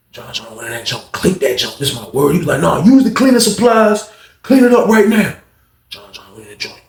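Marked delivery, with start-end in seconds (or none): 2.6-5.3 stern order. Retold or imitated. Inmate orders cleanup.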